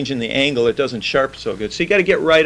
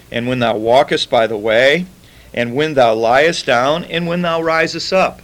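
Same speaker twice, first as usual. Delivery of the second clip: scripture reading. Acted. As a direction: read the verses with solemn weight. Reads scripture aloud to congregation.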